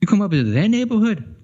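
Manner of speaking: high-pitched New York tough-guy impression; mock New York challenge. Mocking New Yorkers for his friend, in a New York tough-guy accent.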